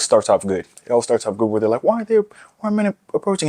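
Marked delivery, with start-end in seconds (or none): 1.8-3.5 very high, squeaky mocking imitation; a shrill parody of a woman's question; mock girly voice. Mocking women's videos about men approaching, very high parody voice.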